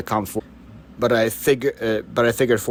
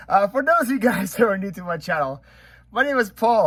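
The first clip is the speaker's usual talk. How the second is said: upbeat intro; 8 semitones higher than usual. Shown as a demonstration. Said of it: "That took way more takes".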